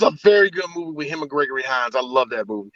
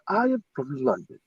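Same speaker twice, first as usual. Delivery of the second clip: softer reply in imitated Scottish accent; mock Scottish accent; 9 dB quieter than usual. Actor answering where he is from, mock Scottish accent. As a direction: claim London in a put-on Scottish accent. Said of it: "where are you from, Patrick?".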